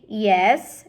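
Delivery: loud eager question; shouted. Acted. Princess urging Mig on, loud eager question. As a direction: call out eagerly. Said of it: "shouted the pea".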